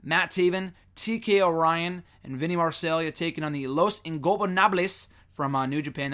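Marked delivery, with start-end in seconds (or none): 3.7-5.1 a clumsy attempt at a Spanish accent on Los Ingobernables; terrible Spanish accent. Shown as a demonstration. Naming the New Japan team in a bad Spanish accent. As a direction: roll out Los Ingobernables in a hammed-up Spanish accent, then apologize. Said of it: "That was a terrible accent".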